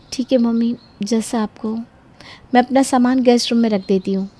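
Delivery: swallowing her disappointment; hurt resignation. Acted. Daughter giving in to her mother, soft and hurt.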